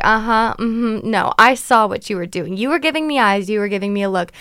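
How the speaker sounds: a loud, lightly put-on Irish scold; hammed-up Irish accent, accusing; mock Irish accent. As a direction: imitate the Irish employee telling her off, hint of brogue. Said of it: "in her little Irish accent".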